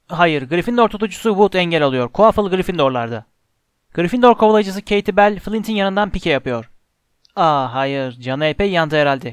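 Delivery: lively Quidditch play-by-play; sports commentary. A narrator's reading. Lee Jordan calling the Quidditch match, excited commentary. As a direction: call the match with pushed, punchy energy.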